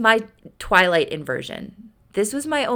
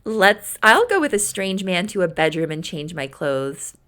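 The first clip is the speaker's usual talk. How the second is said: sarcastic okay. Retold or imitated. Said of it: "So she's like".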